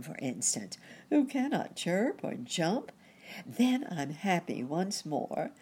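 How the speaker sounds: bright, jolly cricket; chirpy and upbeat; cheerful cricket voice. Acted. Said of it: "said the cheerful cricket".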